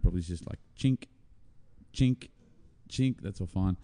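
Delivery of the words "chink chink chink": short mimicked guitar chords, spoken; imitated guitar chink. Bassist mimicking the guitarist's part, spoken guitar chinks. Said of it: "but the guitar part".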